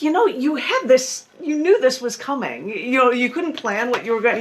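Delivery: lightly acted talking-to for the unprepared; mock exasperation. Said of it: "And I'm like".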